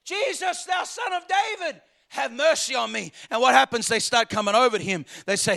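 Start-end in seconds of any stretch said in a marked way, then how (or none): 0.1-3.1 high imitated call, not full volume; acted plea that falls to normal pitch at the end; crying out. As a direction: call out high, then come down. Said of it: "He cried out again".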